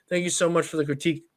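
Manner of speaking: words pushed out on a burp. Real, not acted. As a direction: talk through a burp. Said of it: "Oh, another burp".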